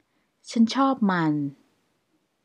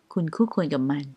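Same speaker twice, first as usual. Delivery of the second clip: whispered translation; กระซิบ; 3 semitones lower, much faster than usual. Shown as a demonstration. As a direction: breathe it out without voice.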